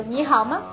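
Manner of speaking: 你好吗 with a light, toneless 吗; neutral tone on 吗. Shown as a demonstration. Teacher shows the question word, 吗 in gentle neutral tone. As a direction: let 吗 fall light and unstressed at the end of 你好吗. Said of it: "So it's called neutral tone".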